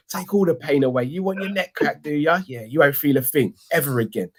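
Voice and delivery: mock chiropractor. Chiropractor promising Drifty relief, lightly hammed-up high voice. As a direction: coax the client in a mock sales patter. Acting the chiropractor reassuring a client.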